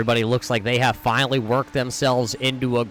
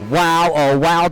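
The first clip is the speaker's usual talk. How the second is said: motorsport commentator; 5 dB louder, slower than usual. Real, not acted. Reacting to the big wreck.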